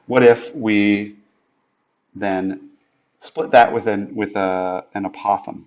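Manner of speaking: halting, stumbling over words; stuttering. Real, not acted. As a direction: trip and restart mid-sentence. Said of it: "Sorry for I'm stuttering".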